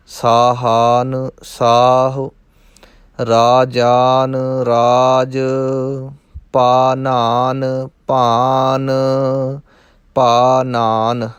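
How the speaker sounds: slow, drawn-out chanting of word pairs; slow recitation demo. Shown as a demonstration. Teacher recites Gurbani word pairs slowly for students. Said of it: "ਧਿਆਨ ਰੱਖਣਾ ਹੈ".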